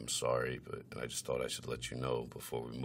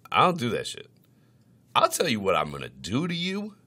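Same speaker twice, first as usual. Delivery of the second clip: bold boast; 9 semitones higher, 8 dB louder than usual. Retold or imitated. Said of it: "I'm like".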